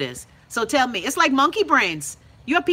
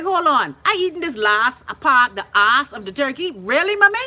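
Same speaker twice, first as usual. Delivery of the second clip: shocked disbelief; 3 semitones higher, 4 dB louder than usual. Retold or imitated. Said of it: "And I was like".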